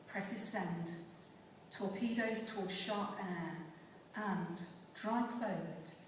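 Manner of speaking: measured recital in short, separated phrases; deliberate poem delivery, lingering between phrases; poetry reading. Acted. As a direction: recite it as a poem, pausing after each image. Recites poem Talking in Atlantis.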